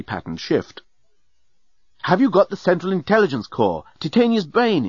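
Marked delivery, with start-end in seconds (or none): 2.0-4.9 higher-pitched, pressing question; urgent interruption. A narrator's reading. Journalist cuts in before Nettie replies, urgent. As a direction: butt in and demand an answer. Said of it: "interposed the journalist".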